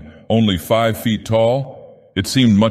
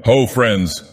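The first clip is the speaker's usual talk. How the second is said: a hearty call above the din; 4 semitones higher than usual. Acted. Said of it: "Thorfell's voice cut through the din".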